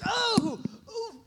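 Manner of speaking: high, hooting "oh" of nausea; comically high retching groan; mock queasy moan. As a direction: imitate someone about to throw up. Acts wife's reaction before throwing up.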